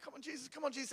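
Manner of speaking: urgent pleading. Retold or imitated. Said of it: "I'm like".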